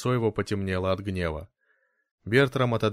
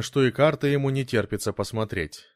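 ordinary delivery

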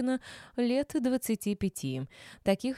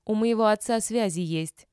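louder, stress on моего; boast; 3 semitones higher, 5 dB louder than usual. A narrator's reading. Mistress boasts of her father's connections, louder. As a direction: lean hard on моего.

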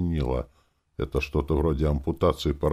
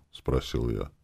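plain reading voice

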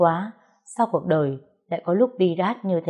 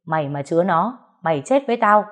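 louder, rising threat on the last words; threatening shout; 4 dB louder than usual. Acted. Father threatening his sister from inside, angry shout. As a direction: snarl the warning at his sister. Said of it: "Bố nó quát trong nhà ra".

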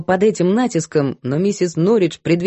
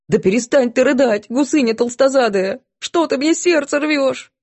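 exasperated yell; 6 semitones higher than usual. A narrator's reading. Cook yelling at sobbing maid.

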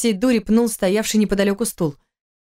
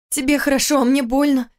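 higher, heartfelt exclamation; exclaimed with feeling; 6 semitones higher than usual. Acted. Wife telling husband she is hurt, exclaiming. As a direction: cry out your hurt. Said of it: "с чувством воскликнула она".

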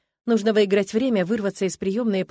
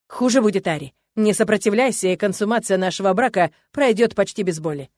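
louder, coldly menacing husband; calm menace before violence; cold threat; 5 dB louder than usual. Acted. (холодная угроза мужа)

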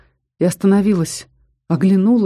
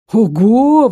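higher, much louder wow; exclaiming; 5 semitones higher, 7 dB louder than usual. Acted. Viter bursts into the room, loud surprised exclaim. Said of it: "воскликнул Витер".

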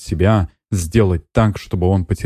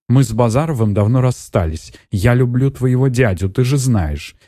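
usual speaking voice

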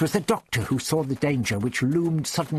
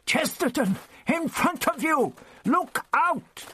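higher, urgent warning cry; yell over shoulder; 14 semitones higher than usual. Acted. Ian yelling a warning back to the Doctor, urgent cry. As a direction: shout back a warning as you run. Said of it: "turned to yell over his shoulder".

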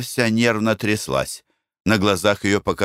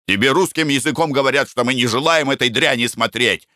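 shout; 6 semitones higher than usual. Acted. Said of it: "крикнул Николай Иванович".

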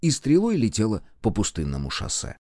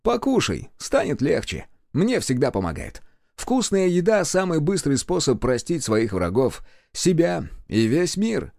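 a touch higher, coaxing; lightly voiced friendly young man; 7 semitones higher than usual. A narrator's reading. Oscar handing Clarisa a skewer to cheer her up, lightly coaxing. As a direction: offer comfort with food. Boy offers food.

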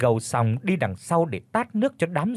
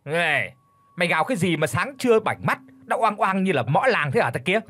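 mild yell; 4 semitones higher than usual. Acted. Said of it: "miệng thì thét hỏi anh nọ".

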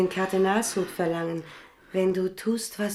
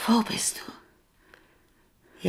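very slow eerie whisper; drawn-out whisper; 4 semitones higher, much slower than usual. Acted. Queen whispering slowly into the dark. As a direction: stretch each word out, breathless.

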